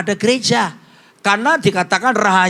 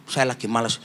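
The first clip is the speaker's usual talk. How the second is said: lazy refusal; 9 semitones lower, 8 dB quieter than usual. Retold or imitated. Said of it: "Saya bilang".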